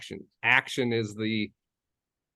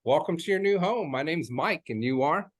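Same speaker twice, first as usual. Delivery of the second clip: open, upbeat hello with a higher lift on hey; welcoming greeting; 3 semitones higher than usual. Shown as a demonstration. Realtor greeting buyers at the open house, welcoming. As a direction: greet them like an air hug. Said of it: "just introducing myself".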